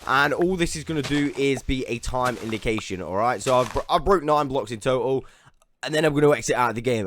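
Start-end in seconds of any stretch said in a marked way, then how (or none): 3.4-7.1 hiccups catching the words. Real, not acted. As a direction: keep talking through hiccups. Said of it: "I do apologize for my hiccups".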